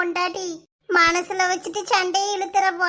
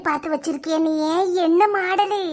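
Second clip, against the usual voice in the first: sweet coaxing; 3 semitones lower than usual. Acted. Mother to son after hearing of the chain, sweet coaxing.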